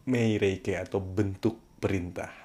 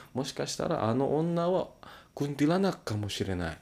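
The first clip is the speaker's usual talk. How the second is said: pitched up high for a ghost story; spooky high voice; 7 semitones higher than usual. Acted. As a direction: say it like a creepy tale, high and eerie. Ghost example sentence.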